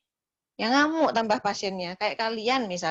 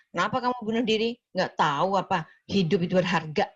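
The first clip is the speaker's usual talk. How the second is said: harsh accusing tone. Shown as a demonstration. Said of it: "Nggak boleh ya".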